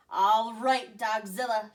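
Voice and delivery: loud call to the dog; shout. Acted. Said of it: "shouted the Big Cheese".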